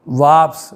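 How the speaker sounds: "वाप्स" said as wharfs, firm and loud; teacher's clear model of "वाप्स"; pronouncing wharfs. Shown as a demonstration. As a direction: punch out "वाप्स" as a model word. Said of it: "that is".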